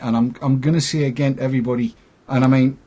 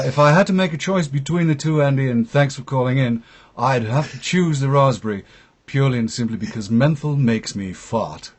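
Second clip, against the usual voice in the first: put-on posh BBC presenter accent. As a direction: lightly put on BBC newsreader accent, answering the caller. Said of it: "so in my B B C presenter's accent".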